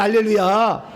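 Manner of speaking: usual speaking voice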